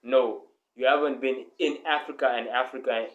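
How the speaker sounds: ordinary talk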